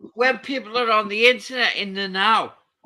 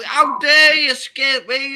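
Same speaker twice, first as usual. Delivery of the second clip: 1 mock Scottish line; 5 semitones higher, 8 dB louder, slower than usual. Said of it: "You'll go".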